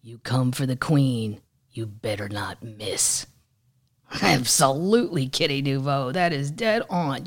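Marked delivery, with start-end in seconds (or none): 0.0-3.2 sassy comeback. Retold or imitated. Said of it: "and she wrote".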